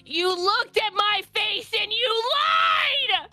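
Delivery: high wailing mock cry, pitch way up; hammed-up tearful plea to Linda; mock sobbing. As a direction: wail it like a betrayed sob. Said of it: "Do you say this crying?".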